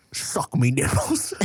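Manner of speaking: slow cockney pirate parody; hammed-up British pirate voice; mock British accent. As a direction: draw it out in comic British.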